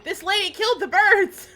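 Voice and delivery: high, loud exclamation; real startled yell; loud outburst. Real, not acted. Outburst at birds being killed.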